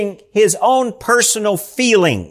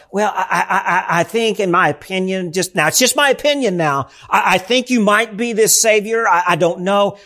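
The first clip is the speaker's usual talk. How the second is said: mock-timid stammer with a laugh; hammed-up nervous hedging; timid, hesitant. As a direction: falter through it half-laughing. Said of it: "timid language".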